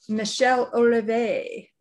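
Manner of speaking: a light French accent on the name. Shown as a demonstration. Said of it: "you're trying to do it with a French accent".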